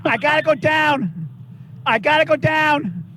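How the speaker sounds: high, panicked calls for help; desperate yell for help. Real, not acted. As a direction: shout for rescue, frantic. Stuck in bucket truck, screaming.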